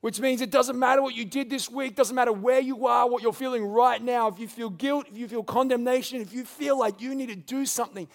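passionate preaching. Acted. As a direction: plead with the congregation. Preaching at full force.

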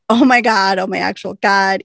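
imitating a frantic sister, half-mocking; freaking out. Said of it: "Waverly's freaking out".

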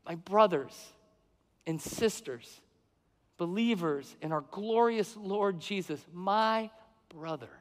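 slow, tender call to the brothers and sisters; a spiritual father looking over his people; fatherly address. Retold or imitated. Apostle gently addressing believers, tender and slow. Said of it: "he's, like, looking at them and going".

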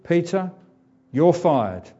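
curt boss firing Peter; Alan Sugar firing. Retold or imitated. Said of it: "Do an Alan Sugar on him".

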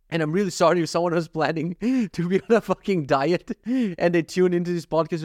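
amused, laughter breaking into the words; laughing apology. Real, not acted. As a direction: apologize through real laughter. Laughing apology to dieting listeners.

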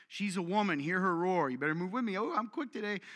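swagger it like a woman who commands; domineering woman. Retold or imitated. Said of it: "Aggressive, domineering".

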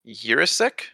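Jiricek said as YOOR-uh-sick, questioning; tentative YOOR-uh-sick for Jiricek, rising; unsure pronunciation. Real, not acted. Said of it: "I'm gonna butcher this".

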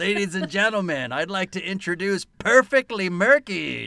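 mock stage announcer. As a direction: hype the band like an emcee. Announcing a band.

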